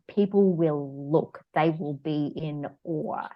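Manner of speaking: slow solemn elephant. Retold or imitated. Elephant's slow proud reply in story.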